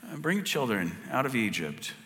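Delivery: high, pleading Moses voice, disbelieving; a hint of a whiny, unsure Moses; doubting Moses. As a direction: play Moses protesting he's the wrong guy. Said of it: "he says".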